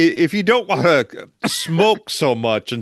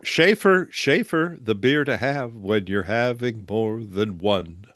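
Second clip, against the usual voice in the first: chipper 1950s ad; 2 semitones lower than usual. Retold or imitated. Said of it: "just chime in".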